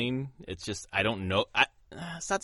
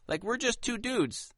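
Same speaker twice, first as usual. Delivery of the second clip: excited; 3 dB louder than usual. Real, not acted. Excited agreement, high pitch.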